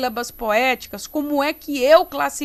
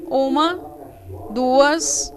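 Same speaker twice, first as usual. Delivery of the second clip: loud, spaced-out count; emphatic classroom counting with pauses; counting aloud; 8 dB louder, much slower than usual. Shown as a demonstration. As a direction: count firmly, one number at a time. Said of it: "eu vou contar".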